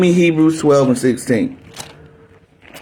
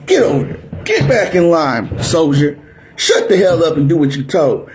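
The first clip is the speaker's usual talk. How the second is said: drill sergeant bark. Retold or imitated. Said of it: "just like that".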